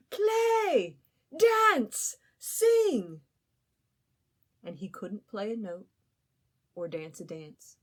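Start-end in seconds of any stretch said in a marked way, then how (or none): 0.1-3.2 high, loud demanding calls; crowd shouting. Acted. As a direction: roar orders at the stage. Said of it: "a great crowd that shouted".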